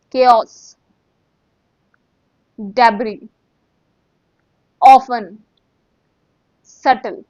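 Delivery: each word called out loud and clear; revision drill. Shown as a demonstration. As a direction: drill the words one by one. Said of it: "you might want me to speak again".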